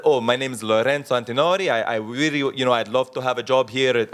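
put-on a light Italian accent, gently done. Lorenzo asking the Savoy bartender for a job, light Italian accent. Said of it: "sorry to do the accent".

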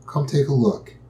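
a hint of a parent coaxing a child to look; reassuring parent. Parent at the closet lightly reassures frightened child. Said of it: "that loving parent might ... say".

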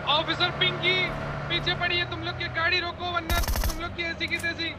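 high, monotone patrol-car announcement; mock police officer. Officer Pinky chasing teammates' car, mock police order. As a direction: play a cop ordering the car to stop.

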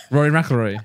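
lightly attempted Irish accent; jokey hint of Irish accent. Shown as a demonstration. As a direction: say the name with a touch of an Irish accent. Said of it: "I was doing an Irish accent".

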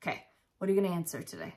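breathless, short of air; out of breath. Real, not acted. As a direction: talk while catching your breath. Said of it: "I'm out of breath".

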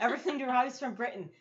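attempted British accent. Shown as a demonstration. Kid explaining the slipping accents, attempted British accent. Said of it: "now I'm going British".

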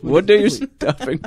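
high-pitched hammed-up Australian; Elon Musk, Australian accent. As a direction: put on a bad Australian accent. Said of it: "let's hear him talk".

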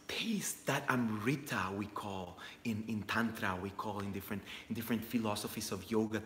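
hushed reverence. Real, not acted. Reverent lowered talk of elixir.

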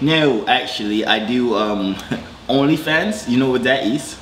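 slow, mock English accent; put-on English accent. Telling callers what he does, put-on English accent. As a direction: take your time in a fake English accent. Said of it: "trying to do an English accent".

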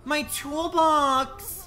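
high, loud, drawn-out cry; stretched-out loud lament; anguished wail. Real, not acted. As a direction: wail over the lost item. Loses toolbox in game.

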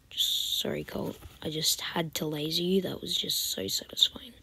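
soft, hushed, pleased with herself; whispered gloat. Real, not acted. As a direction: murmur a sly apology. Gloating aside at opponent.

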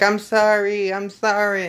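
high, squeaky apology; squeaky crying kid. Retold or imitated. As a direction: imitate a boy whimpering in a squeaky voice. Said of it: "the squeaky voice, he's like".

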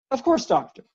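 a gentle giant trying to please; courteous stranger at the door, a little anxious; eager polite visitor. A narrator's reading. Narrator voices visitor Rybert.

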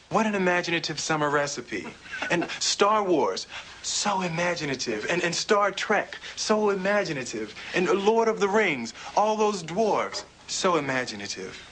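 mock-impressed, drawing out the examples; sarcastic admiration. Speaker scoffing at what passes for imagination, sarcastically admiring. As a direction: gush with mock wonder, letting the sarcasm show.

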